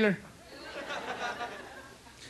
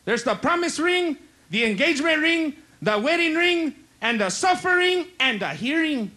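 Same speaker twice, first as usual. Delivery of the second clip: advising uncle; 3 semitones higher than usual. Acted. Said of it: "my uncle tells me".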